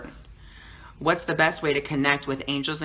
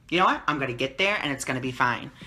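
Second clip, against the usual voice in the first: relaxed, dropping lower as it settles; chill; 3 semitones lower, faster than usual. Retold or imitated. Channeler retelling how unbothered they were getting dinner, chill. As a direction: shrug it off, easy and untroubled. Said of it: "I was just chilled. I was just like".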